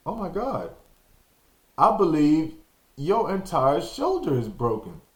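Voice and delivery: worried aunt. Retold or imitated. Aunt voiced examining shoulder.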